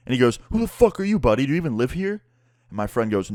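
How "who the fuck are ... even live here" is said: high-pitched mock indignation; confrontational neighbor. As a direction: challenge a stranger, mimicking an angry neighbor. Neighbor confronting friend, acted out.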